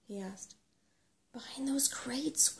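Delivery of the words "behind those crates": slow, high-pitched whisper; hushed, breath-only warning. A narrator's reading. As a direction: whisper it slowly, secretively. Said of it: "whispered Sorrel".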